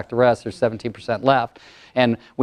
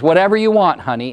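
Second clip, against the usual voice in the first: higher, quick, curt wife answer; a touch louder and quicker, curt; curt, quick reply; 3 semitones higher, 3 dB louder than usual. Retold or imitated. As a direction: snap it back shortly. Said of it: "her voice was a little louder and a little more curt and a little more quick".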